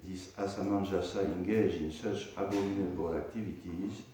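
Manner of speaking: measured reading aloud of a verse; scripture reading. Acted. Teacher reading a scripture verse to students, measured recitation. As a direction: recite the verse, then read out its translation.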